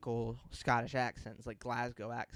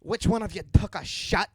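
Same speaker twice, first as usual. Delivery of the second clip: loud, high Scottish outrage; Scottish accent; 7 semitones higher, 12 dB louder than usual. Shown as a demonstration. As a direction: demand it as an outraged Scot. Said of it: "learning how to do a Scottish accent".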